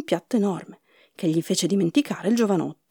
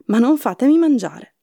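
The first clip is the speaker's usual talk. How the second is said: louder, higher plea in mild fear; frightened; 5 semitones higher, 5 dB louder than usual. A narrator's reading. Jack begging the giantess not to eat him, frightened. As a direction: beg to be spared, scared. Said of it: "disse Jack spaventato".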